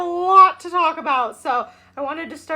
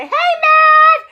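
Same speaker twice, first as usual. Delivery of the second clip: higher, louder call; excited greeting; 10 semitones higher, 12 dB louder than usual. Real, not acted. Host greeting Matt in the chat, loud and high. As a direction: call out a big happy hello.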